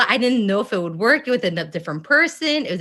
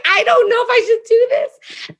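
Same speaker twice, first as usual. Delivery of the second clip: nervous doubt; 13 semitones higher, 5 dB louder than usual. Retold or imitated. Nervous hesitation acted in retelling.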